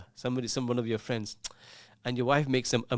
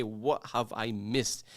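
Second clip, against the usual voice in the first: mocking quote; 3 semitones lower, much slower than usual. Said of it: "you've come in and say".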